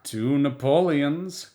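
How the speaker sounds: put-on slow, muttered old crone; lightly voiced old crone grumble; grumbling crone. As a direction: grumble it like a toothless old woman. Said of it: "grumbled a toothless old crone".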